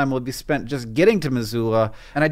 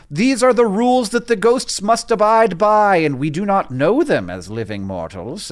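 lightly put-on British accent for an ad read; a touch of mock British announcer; hint of fake British. Host reading a sponsor line, half in fake British accent. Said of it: "dangerously close to your fake British accent".

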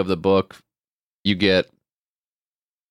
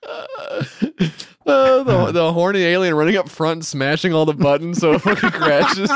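alien voice; 8 semitones higher than usual. Acted. Voicing alien crash.

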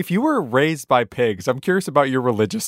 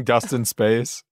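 mock ranting; 3 semitones lower, much slower than usual. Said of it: "you kept saying".

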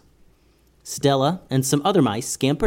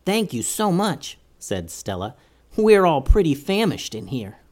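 high little mouse voice; tiny squeaky critter; 5 semitones higher than usual. Acted. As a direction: squeak it out gently. Mouse Stella speaks.

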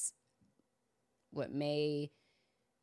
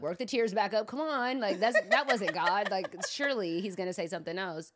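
self-coaxing; 3 semitones higher, 6 dB louder than usual. Retold or imitated. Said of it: "I'm like".

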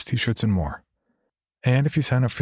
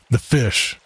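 deep raspy voice; 3 semitones higher than usual. A narrator's reading. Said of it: "Teddy repeated in a deep, raspy voice".

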